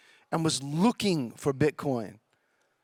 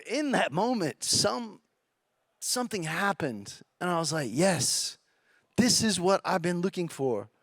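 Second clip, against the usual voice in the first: softening and dropping away as emotion rises; getting emotional; 4 dB quieter than usual. Real, not acted. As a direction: let it catch a little, hushed. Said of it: "I'm gonna get emotional".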